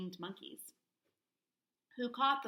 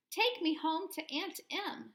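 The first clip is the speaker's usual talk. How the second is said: slow, higher plea to go home; exclaiming; 6 semitones higher, 3 dB louder, slower than usual. A narrator's reading. Dorothy clicking her heels, slow eager wish. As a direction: say it like a wish at last. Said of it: "she exclaimed".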